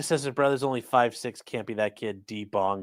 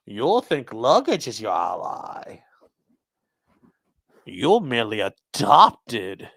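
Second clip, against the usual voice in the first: menacing whisper; 3 semitones lower, 4 dB louder, slower than usual. Acted. Bane quote parody.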